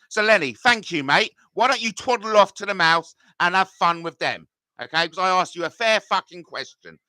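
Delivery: sneering at a viewer who ignored his question; sarcastic telling-off. Real, not acted. Telling off Lenny who didn't answer.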